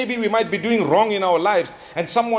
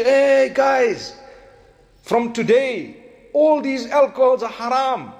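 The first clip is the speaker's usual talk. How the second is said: calling out an announcement; 5 semitones higher, slower than usual. Retold or imitated. Caller announcing news to people.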